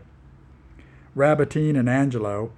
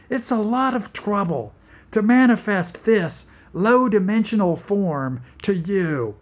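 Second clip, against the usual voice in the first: mildly higher, lightly hissy creature voice; a hint of an alien toad complaining; lightly voiced demon toad; 6 semitones higher than usual. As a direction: demon toad grumbling to the humans. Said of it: "voice like modulated white noise".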